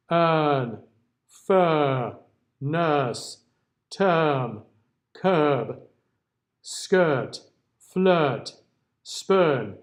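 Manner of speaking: each word spoken slowly and clearly as a demo. Shown as a demonstration. Teacher models the central vowel for students, clearly. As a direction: model every vowel for the class. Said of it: "just to hear some of these again".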